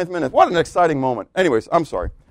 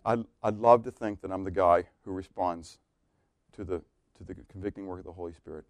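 quiet confession; 6 semitones lower, 5 dB quieter than usual. Real, not acted. Soft confessional reflection.

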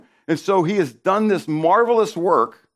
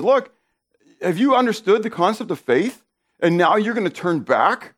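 acted admonishing; 5 semitones higher than usual. Voices Paul admonishing his readers.

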